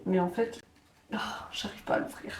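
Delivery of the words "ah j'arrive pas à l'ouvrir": opening a stuck jar. Real, not acted. Struggling to open tomato tin.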